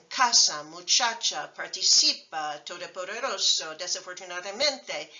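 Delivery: casa, muchacha, participa, todopoderoso, desafortunadamente, each stressed one syllable before the end; next-to-last syllable stress. Shown as a demonstration. Teacher listing vowel-final words, next-to-last stress. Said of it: "stress the next to last syllable".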